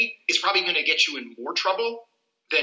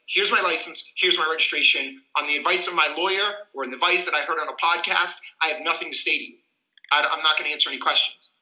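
measured, mildly firm refusal; firm and composed. Acted. Driver telling police they will not answer questions, firm. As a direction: state it firmly without heat. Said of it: "firmly and strongly".

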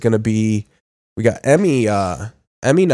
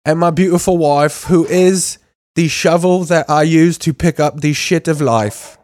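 mock sappy speech; 4 semitones higher than usual. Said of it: "when they're like".

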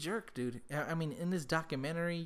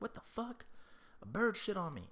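mock outraged neighbour; 8 semitones higher than usual. Neighbour imitated, disgusted.

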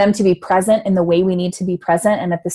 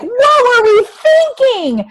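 much higher, very slow incredulous question; disbelieving; 5 dB louder, much slower than usual. Retold or imitated. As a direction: stretch it out in disbelief. Looking back in disbelief.

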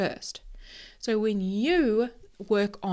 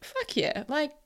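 excited; 7 semitones higher than usual. Retold or imitated. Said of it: "And I was like".

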